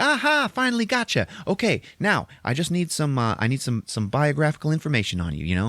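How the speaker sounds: high, pouncing yearbook reporter; eager schoolgirl. Acted. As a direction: pounce on him with perky insistence. Eager yearbook girl ambushes him.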